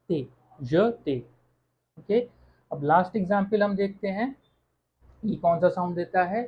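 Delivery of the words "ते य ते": slow "ते", then "य ते" in separate syllables; "ते" with an e sound and silent r; syllable demo. Shown as a demonstration. Teacher showing the sound of e, slow demonstration. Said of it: "ई का sound निकला ए".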